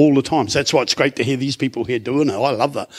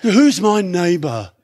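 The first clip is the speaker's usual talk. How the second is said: mocking repeat; slower than usual.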